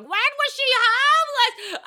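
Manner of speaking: high, loud, drawn-out mock screech; hammed-up maternal outrage, stretched out; shrieking mother. Imagined mother shrieking in alarm.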